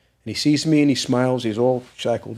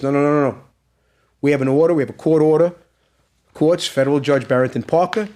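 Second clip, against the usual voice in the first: raised, emphatic objection, retold; insistent captain; 3 semitones higher, 4 dB louder than usual. Captain jumps up to overrule the prisoner, loud and insistent. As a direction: re-enact an official firmly laying down the order.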